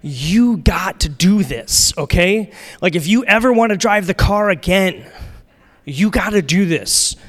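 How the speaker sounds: a hint of insistent father; lightly voiced stern dad. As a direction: lay down the law like a dad, lightly acted. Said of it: "just picture your dad right now".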